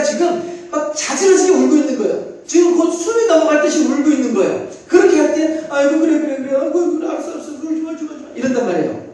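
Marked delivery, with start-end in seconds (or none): 5.7-8.3 put-on higher, urgent hushing of a wailing baby; mother frantically hushing her screaming baby; imitating a mother soothing a crying baby. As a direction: rush to calm a screaming infant. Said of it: "저 잘하나요? 흉내를 잘 내고 있나요?".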